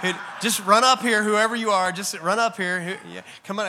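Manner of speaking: loud, high, laughing call to the crowd; preacher laughing as he calls a volunteer up. Real, not acted. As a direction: shout it to the back row with a laugh. Calling a volunteer forward laughing.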